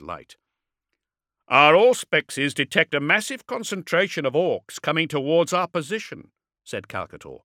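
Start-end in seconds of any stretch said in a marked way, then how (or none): 1.5-6.3 raised, projected warlord voice; calling out. A narrator's reading. Warlord warns the dreadnought of incoming orcs, calling out. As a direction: project the warning across the gap.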